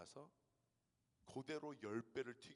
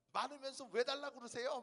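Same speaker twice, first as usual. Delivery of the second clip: put-on child's bold comeback, higher and louder; confident retort; 12 semitones higher, 6 dB louder than usual. Eldest child boldly answering dad, confident retort. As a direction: talk back boldly. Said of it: "첫째는 당당하게 얘기합니다".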